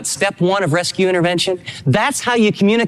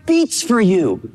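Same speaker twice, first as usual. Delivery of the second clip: slow, higher and heartfelt, as Paul speaking; tender voice of Paul; 9 semitones higher, much slower than usual. Retold or imitated. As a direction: let each word land slowly, from the heart. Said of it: "He's saying".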